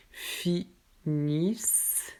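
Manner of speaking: finissent said finis, very slowly, with the ending silent; silent ent ending. Shown as a demonstration. Teacher modelling the verb slowly, ent ending silent. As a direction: stretch out finissent slowly and stop at the s. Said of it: "On ne prononce pas le dernier T ou E N".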